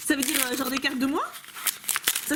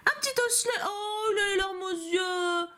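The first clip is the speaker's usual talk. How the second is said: cute squeal; 8 semitones higher, slower than usual. Real, not acted. Coos over a cute card.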